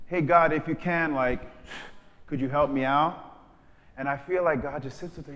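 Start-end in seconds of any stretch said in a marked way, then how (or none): 0.1-3.2 half-hearted doubtful ask; timid prayer. Retold or imitated. Mock timid believer hedging a prayer to God. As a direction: ask God as if unsure he will. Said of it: "some of us pray like that".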